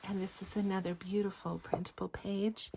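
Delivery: breathy whispered show-and-tell; soft whisper. Acted. Crafter whispering to viewers while showing pages, hushed. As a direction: hush it like a quiet craft video.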